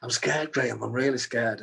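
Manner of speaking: scared and pleading; tearful fear. Retold or imitated. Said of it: "as I was crying".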